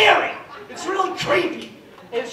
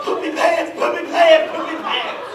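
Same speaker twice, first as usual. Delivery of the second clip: mock playground chant, louder; raised-voice schoolyard jeer; imitated kids yelling; 3 semitones higher, 5 dB louder than usual. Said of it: "all the kids are yelling".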